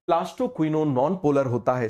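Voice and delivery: slow, words spaced out; teacher dictating slowly; slow dictation. Shown as a demonstration. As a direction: repeat it slowly for notes. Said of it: "आप जानते हो कि plastoquinone क्या होता है".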